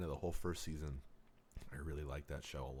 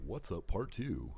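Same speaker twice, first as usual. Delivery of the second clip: slow, booming radio host intro; 3 semitones higher, 5 dB louder, slower than usual. Pretend. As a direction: announce it like a DJ. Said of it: "That was a good radio voice".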